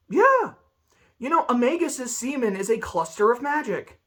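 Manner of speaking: high, deadpan matter-of-fact line; mock straight face. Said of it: "She is saying it with a straight face".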